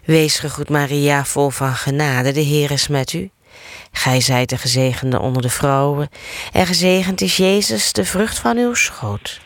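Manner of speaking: measured, rhythmic prayer recitation; rosary prayer. Acted. Leader reciting the rosary with listeners, steady prayer cadence. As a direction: recite the Hail Mary as a familiar chant. Leads the Hail Mary.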